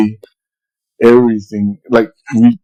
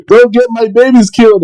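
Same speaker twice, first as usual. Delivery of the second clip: pitched-up imitation of his wife's warning; high mock wife scolding; 10 semitones higher than usual. Wife on the phone warning dad, mock high scolding. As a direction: mimic the wife, high and protective.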